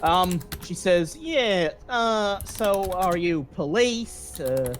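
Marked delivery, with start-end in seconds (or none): 1.2-4.7 a lightly voiced bored receptionist questioning. GM as receptionist to the reporter, raised chirpy voice.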